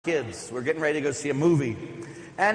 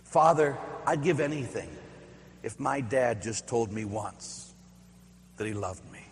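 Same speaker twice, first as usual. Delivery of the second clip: retold sobbing plea; 5 semitones lower, 5 dB quieter than usual. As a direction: quietly imitate a boy crying to the priest. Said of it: "sobbing through his tears".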